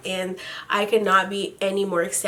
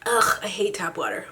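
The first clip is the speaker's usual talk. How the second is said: whispered aside; 3 semitones lower, 6 dB quieter than usual. Real, not acted. Grumbling aside while drinking water.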